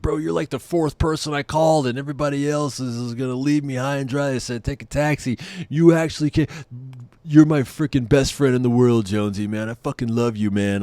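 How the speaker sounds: high-pitched, effusive drunk impression; drunk buddy. Drunk friend thanking the one pal who came, high mock-drunk gushing. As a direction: gush like a drunk best friend. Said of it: "so he's drunk".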